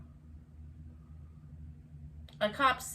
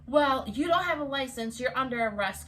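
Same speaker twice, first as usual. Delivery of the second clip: firm cop imitation, raised a little; insistent officer; 3 semitones higher, 4 dB louder than usual. Cop refuses her license excuse, firmly imitated. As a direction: mimic a cop overruling an excuse. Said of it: "he was like".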